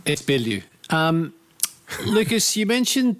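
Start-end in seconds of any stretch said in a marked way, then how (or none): 0.0-0.6 Bilyeu said carefully as the correct name; saying the name. Shown as a demonstration. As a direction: give Bilyeu as the right pronunciation. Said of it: "How do you pronounce that one?".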